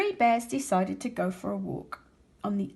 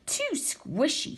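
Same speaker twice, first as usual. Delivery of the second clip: put-on squishy girl voice; 6 semitones higher, slower than usual. A narrator's reading. Daisylocks trying the bed.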